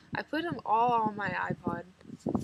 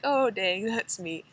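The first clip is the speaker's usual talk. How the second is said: caught off guard; 5 dB louder, slower than usual. Retold or imitated. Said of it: "And I'll be like".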